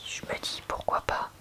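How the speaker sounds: normal talking voice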